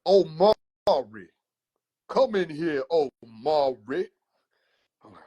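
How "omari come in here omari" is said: slow drawn-out calling of a name; lightly voiced stern uncle calling; slow, drawn-out uncle summons; older uncle voice. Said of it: "older uncle sound like this when he talk".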